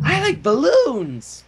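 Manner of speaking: very slow, high, dopey voice; slow high goofy balloon lover; dopey pony. Acted. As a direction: say it like a dreamy simpleton. Pinkie's silly line.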